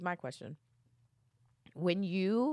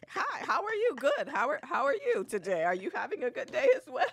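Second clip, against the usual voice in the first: chirpy greeting imitation; 5 semitones higher than usual. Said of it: "They be like".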